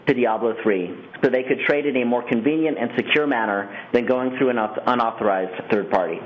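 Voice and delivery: formal scripted read, steady and even; prepared statement read. Acted. Executive reading prepared remarks to investors on the call, formal scripted read. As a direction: read it like an official corporate announcement.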